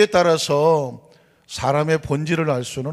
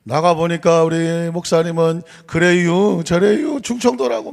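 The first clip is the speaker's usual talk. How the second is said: Chungcheong dialect; 3 semitones higher, 6 dB louder than usual. Retold or imitated. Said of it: "충청도 권사님은".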